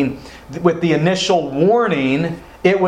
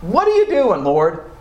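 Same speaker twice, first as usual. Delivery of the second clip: "you" shot up high, the whole question pressed and pleading; high, exasperated complaint to God; exasperated plea; 4 semitones higher than usual. Retold or imitated. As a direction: cry out "What are you doing" to God in frustration. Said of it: "You ever felt like asking God that?".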